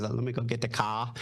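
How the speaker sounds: lightly mocked New England vowels; imitated New England accent. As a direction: mimic a New England friend, dropping the R in "car". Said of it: "one of my good friends that I work with".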